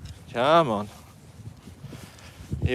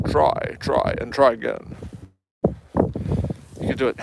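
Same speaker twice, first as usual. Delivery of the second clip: Sean Connery impression. Shown as a demonstration. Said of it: "Sean Connery".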